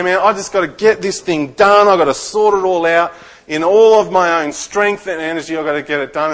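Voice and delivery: loud, strained mock inner voice; pressured self-talk. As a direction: push it like a stressed man racing the clock.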